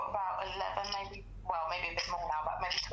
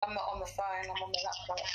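tinny. Real, not acted. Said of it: "like, tinny".

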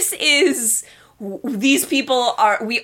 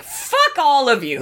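defiant dismissal; 4 semitones higher than usual. Acted. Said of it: "the person in the room that's like".

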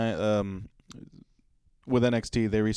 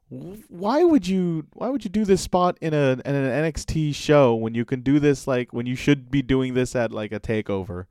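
incredulous; 3 semitones higher, 3 dB louder than usual. Retold or imitated. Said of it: "And I just thought".

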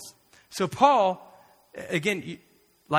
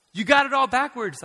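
high, loud rebuke; Jesus confronting; 9 semitones higher, 8 dB louder than usual. Retold or imitated. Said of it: "Jesus shows up and says".

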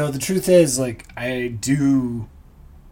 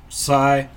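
spoken sigh; 4 dB louder than usual. Shown as a demonstration. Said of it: "How about an annoyed sigh?".

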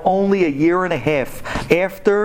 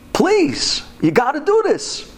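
high desperate plea, much higher; pleading; 11 semitones higher, slower than usual. Retold or imitated. Guilty men begging the wronged classmate, high pleading. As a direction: beg him like your life depends on it. Two guys pleading for forgiveness.

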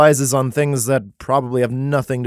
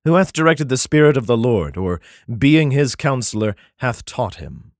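solemn King James reading voice; first read-through of the verse; scripture reading; 2 semitones higher, 3 dB louder than usual. Acted. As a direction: declaim the verse as written. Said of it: "Um, hold on".

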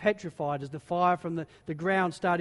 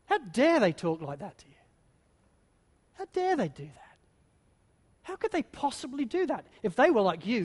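Satan's whisper; 3 semitones higher than usual. Retold or imitated. Preacher voicing Satan's sly whisper to the congregation, coaxing. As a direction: flatter them into feeling wronged. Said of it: "here's what he says to us".

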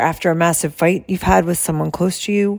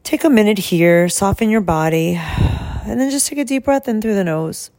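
guided breathing. Shown as a demonstration. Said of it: "So let's just do it together".

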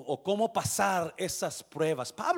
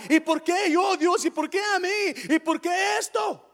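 quejido agudo y fuerte; queja exagerada; 12 semitones higher, 6 dB louder than usual. Acted. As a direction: imita a alguien que se queja a gritos. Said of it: "se empieza a quejar". (protesta lastimera, teatral)

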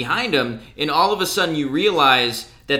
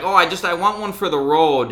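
mock Chicago accent, pitched up; annoying Chicago accent; 4 semitones higher than usual. Drunk woman ordering tequilas at a store, annoying Chicago accent. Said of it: "a really annoying Chicago accent".

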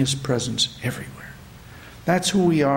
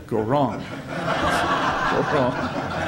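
cracking up mid-line; laughing while repeating the words; much slower than usual. Acted. Teller laughs through glitch line.

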